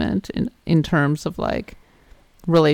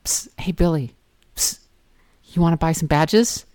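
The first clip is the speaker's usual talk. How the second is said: whispered shady dealer pitch; secretive raspy sales murmur. Pretend. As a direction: hiss it like a back-alley seller. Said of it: "the bunny will be like".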